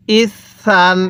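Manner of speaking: ইসান with a long held s and a final n; doubled consonant. Shown as a demonstration. Teacher showing the tanween, doubled s held long. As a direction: hold the middle of ইসান, close on n. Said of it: "এই তানভিন কিন্তু দুইবার উচ্চারণ হবে".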